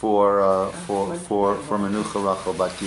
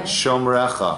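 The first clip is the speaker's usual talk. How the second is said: measured, phrase-by-phrase psalm leading; slow prayer recitation; slower than usual. Real, not acted. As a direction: recite slowly for others to repeat. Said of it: "I'll say it slowly".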